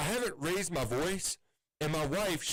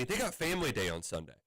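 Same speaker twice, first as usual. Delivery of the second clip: normal talking voice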